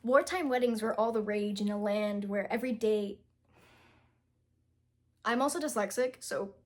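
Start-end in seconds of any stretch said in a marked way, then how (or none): 0.0-3.2 steady read-aloud of "Wartime weddings" line. Shown as a demonstration. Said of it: "Let me read it to you".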